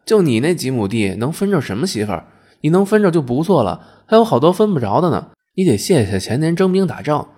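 loud, high, scolding wife; forceful, rattled-off berating; indignant tirade. Acted. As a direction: tear into your husband, offended. Offended wife tearing into her husband.

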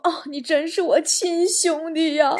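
slow, hammed-up gratitude; mock-emotional thanks to a buddy; deeply moved. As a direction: drag it out as if touched. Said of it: "我好感动啊".

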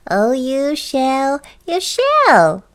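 grinning goblin. Acted. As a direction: promise it with a goblin's grin, building. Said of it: "grinned the Goblin".

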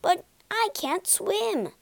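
high, slow complaint; drawn-out grumbled objection; grumbling protest. A narrator's reading. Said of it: "Mole grumbled".

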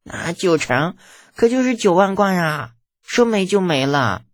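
put-on high boyish lament over lost money; pained young prince, pitched high; heartsick. A narrator's reading. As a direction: wail mildly, dragging out the ending. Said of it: "心疼的呼吸都有点困难".

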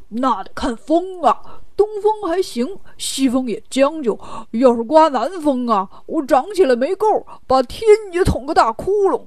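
proud, swinging braggart delivery; smug boasting. Acted. Pigsy boasts to the king how tall he grows, smug. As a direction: relish every claim like a show-off. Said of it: "八戒得意地说".

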